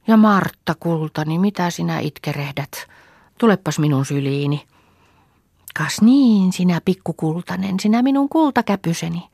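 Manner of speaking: lightly voiced granny cooing; old neighbour woman soothes the crying little girl; tender old woman. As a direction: comfort the child like a kind old granny. Old neighbour comforts crying child.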